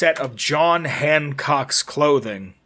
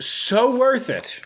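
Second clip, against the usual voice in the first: high, slow mock gushing; drawn-out, dreamy and delighted; 9 semitones higher, much slower than usual.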